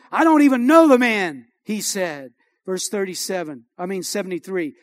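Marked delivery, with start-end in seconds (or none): 0.1-1.5 slightly louder, emphatic denial; retold sworn denial. Peter denies it before the bystanders, emphatic. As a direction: deny it firmly, as if on oath. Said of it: "this time with an oath".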